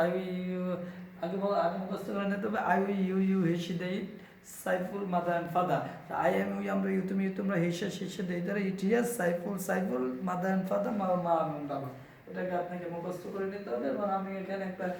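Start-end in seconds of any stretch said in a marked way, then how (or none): 0.1-0.6 quick memorized list; one-breath recital. Shown as a demonstration. Teacher showing how to recite subjects, in one breath. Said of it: "আপনাকে এক শ্বাসে বলতে হবে". 2.8-11.9 one-breath recital. Shown as a demonstration. Teacher showing learners how to memorize subjects, in one breath. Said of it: "আপনাকে এক শ্বাসে বলতে হবে".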